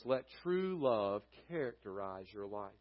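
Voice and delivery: "true" given clear weight; stress on true. Shown as a demonstration. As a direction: lean on the word "true". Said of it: "The emphasis there on the word true".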